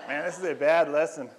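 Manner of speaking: put-on amused scoff at his own old lesson; half-laughing self-mockery.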